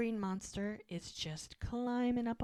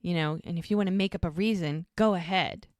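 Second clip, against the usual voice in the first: a louder, hammed-up angry snap; mock angry; 5 dB louder than usual. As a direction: throw it at him, loud and fed up. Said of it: "So she's like".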